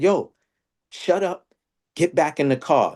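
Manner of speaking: high, urgent hushed command; urgent order. Retold or imitated. Telling his friend to get back in the car, high and urgent. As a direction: hurry him back into the car.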